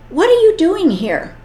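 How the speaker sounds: the eagle demands an answer; eagle's challenge. A narrator's reading. Eagle addresses the young eagle.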